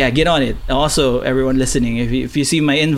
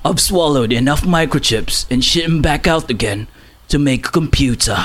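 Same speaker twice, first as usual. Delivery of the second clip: put-on Cockney accent. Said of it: "you gotta do the Jason Statham accent".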